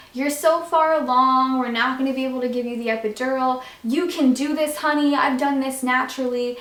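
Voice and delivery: nurse imitation. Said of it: "were like".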